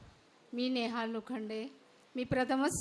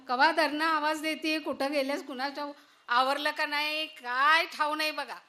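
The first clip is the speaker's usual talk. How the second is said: a lightly voiced village daughter-in-law calling out; 5 dB louder than usual. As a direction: call through the house for your mother-in-law. Daughter-in-law calls mother-in-law. (हाक मारणारी सून)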